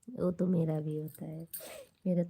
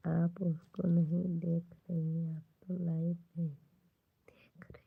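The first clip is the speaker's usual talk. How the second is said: hushed repeat. Real, not acted. To the live audience while her daughter sleeps, hushed and fading.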